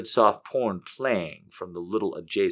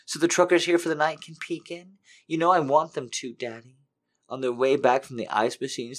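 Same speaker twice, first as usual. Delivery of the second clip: higher, desperate pleading; urgent begging; 5 semitones higher than usual. Acted. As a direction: beg urgently, voice climbing higher. Character's begging grows urgent.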